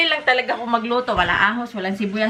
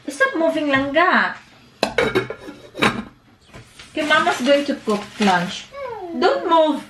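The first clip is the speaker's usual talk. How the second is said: raised calling voice; 6 semitones higher than usual. Real, not acted. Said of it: "napapalakas mo yung boses mo".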